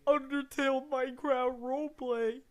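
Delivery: hyped, slow, loud cheer; overacted anime dub. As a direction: ham up the excitement. Hyped reaction to roleplay clip.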